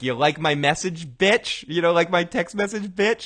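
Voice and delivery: mock taunting, lifting on "bitch"; retold verbal abuse. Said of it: "starts verbally abusing him".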